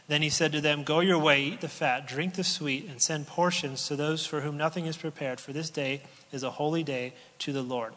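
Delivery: a preacher's formal reading voice; scripture reading. Acted. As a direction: read the passage out to the congregation. Reads scripture aloud.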